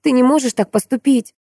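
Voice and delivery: high, anguished begging; anguished plea. A narrator's reading. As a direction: beg him not to go. Maya begging.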